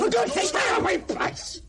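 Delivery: desperate shout to keep him away; panicked plea. Acted. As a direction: cry out to hold him off. Begging someone to stay back.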